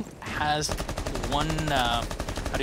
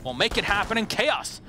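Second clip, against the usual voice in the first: hyped play-by-play; 3 semitones higher than usual. Acted. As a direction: call the round like the final seconds matter. Live esports play-by-play.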